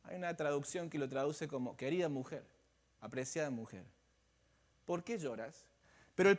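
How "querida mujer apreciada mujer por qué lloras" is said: softer, lower and gentle; "Querida mujer" said softly with affection; soothing a weeping woman, quietly and kindly; tender. Shown as a demonstration. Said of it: "Es una frase de apreciación".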